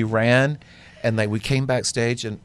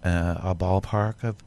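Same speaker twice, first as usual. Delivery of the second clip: unhurried, composed delivery with long pauses; calmest voice. Retold or imitated. Designer asks late guests for their arrival time, very calmly. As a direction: imitate an unruffled gentleman, calm as a cucumber. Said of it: "calmest voice".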